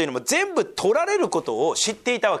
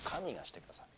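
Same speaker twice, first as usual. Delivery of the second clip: 神がしてくださる repeated far softer and lower; soft echo; 11 semitones lower, 22 dB quieter, faster than usual. Shown as a demonstration. Pastor repeating to the congregation, softer and lower. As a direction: let 神がしてくださる fall to a hushed echo. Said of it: "あと神がしてくださるんですよ。".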